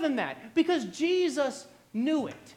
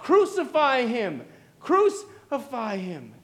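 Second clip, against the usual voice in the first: restrained imitation of a crowd crying out, louder at first; crowd's cry; 4 dB louder than usual. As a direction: cry it out like a crowd, slowing on the repeat. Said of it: "the crowd cries out".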